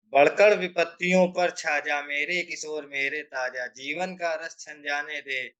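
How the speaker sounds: measured heroic verse; poem recitation. Acted. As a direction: recite it as a rousing charge. Recites poem after explaining.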